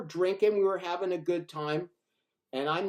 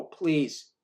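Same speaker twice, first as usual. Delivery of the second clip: quieter, gentler please; a softer second plea. Retold or imitated. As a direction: ask again more softly. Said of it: "I go".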